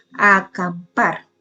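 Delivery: "Acampar" slowly, weight on PAR; teacher's slow "a-cam-PAR"; stress on final PAR. Shown as a demonstration. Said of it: "también lleva el acento en la última sílaba".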